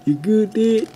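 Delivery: high Western cowboy voice; Western accent. Pretend. Kid checking on dad in a Western accent. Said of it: "I just had to do that Western accent".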